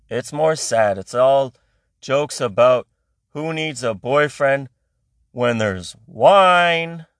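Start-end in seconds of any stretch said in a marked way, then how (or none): 3.3-7.1 drawn-out mock line. Mocking female incel joke.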